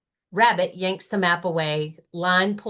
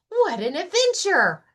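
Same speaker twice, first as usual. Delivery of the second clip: Rabbit shouting; 9 semitones higher than usual. Acted. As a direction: burst out with delight, pitched high. Rabbit cheering.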